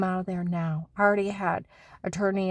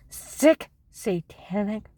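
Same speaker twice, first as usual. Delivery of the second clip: angry outburst; 2 semitones higher, much slower than usual. Real, not acted. Wife cursing the people after her husband, shouting. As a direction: spit it out in fury.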